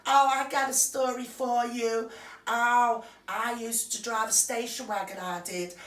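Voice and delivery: lightly put-on American voice; mocking Meghan voice. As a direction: mimic a smug celebrity anecdote. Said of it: "She turns around and goes".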